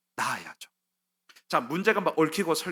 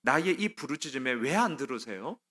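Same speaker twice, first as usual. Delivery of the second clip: pleading cry to God; 3 semitones higher than usual. Retold or imitated. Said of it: "힘드니까 얘기합니다".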